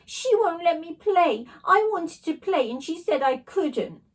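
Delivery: high, slow whining complaint; whiny bully wail. A narrator's reading. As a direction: drag it out like a sulky tattletale. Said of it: "wailed Brendan the bully".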